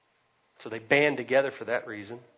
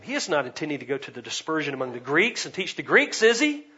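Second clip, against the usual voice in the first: mock scoffing; 5 dB louder than usual. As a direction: ridicule it as an incredulous question. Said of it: "they were scoffing at him".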